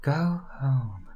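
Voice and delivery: constricted, gritty false fold sound; false fold constriction. Shown as a demonstration. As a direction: squeeze the false folds a little. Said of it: "a sound like this with a little bit of false hall constriction".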